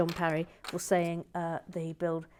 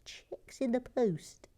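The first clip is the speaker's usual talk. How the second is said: conspiratorial whisper; 5 semitones higher, slower than usual. Acted. Snide aside about bribery.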